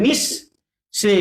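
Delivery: নিঃ closed on an s, then সে after a pause; doubled s demo. Shown as a demonstration. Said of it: "স দুইবার হবে".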